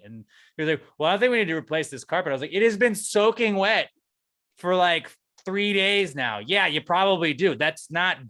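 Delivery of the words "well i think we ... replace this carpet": manager's reply. Retold or imitated. Manager quoted on the phone.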